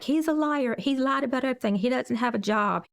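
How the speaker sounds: voicing the crying niece's words; upset quote. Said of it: "And she was like".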